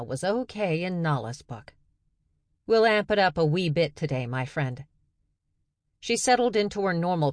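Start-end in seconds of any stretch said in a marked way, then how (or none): 2.7-4.8 fake Scottish accent. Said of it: "The accent was fake".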